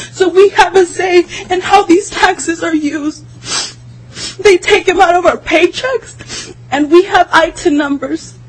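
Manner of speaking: words breaking with crying, steady pace; in tears. Real, not acted. Pleading with lawmakers for immigrant families, through tears. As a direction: hold back sobs while speaking out. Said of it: "I'm sorry that I'm in tears".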